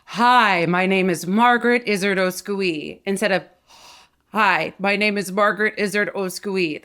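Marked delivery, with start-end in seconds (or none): 0.1-3.0 loud, open, energetic greeting; relaxed excited intro; released energy. Shown as a demonstration. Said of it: "It's relaxed energy". 4.3-6.8 pinched, constricted delivery; tense, held-back voice; tight voice. Shown as a demonstration. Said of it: "That's so tight".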